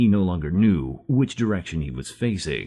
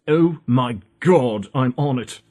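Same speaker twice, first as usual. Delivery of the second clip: eager excitement; 6 semitones higher, 4 dB louder, slower than usual. Acted. Car thrilled at the mission.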